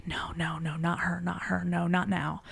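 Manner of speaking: hushed frantic mumble, barely voiced; whispered pleading no; mumbling. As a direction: mutter it under your breath in dread. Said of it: "he starts to mumble".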